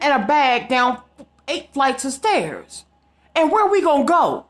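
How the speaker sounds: high, pleading disbelief with a broken laugh; frantic protest. Retold or imitated. Pleading with code enforcement about her cat, high frantic disbelief. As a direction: panic rising over the cat and stairs.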